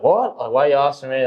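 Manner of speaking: high, caught-off-guard squeak; flustered reporter. Retold or imitated. Reporter caught out at the press conference, high and flustered. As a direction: mimic a reporter who has been put on the spot.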